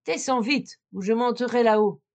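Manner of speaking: a shouted threat from below, the last words loudest; shouting. Acted. Bluebeard yelling up the tower at his wife, rising loud at the end. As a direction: Bluebeard bellows up the tower, knife in hand. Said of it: "criait de toute sa force".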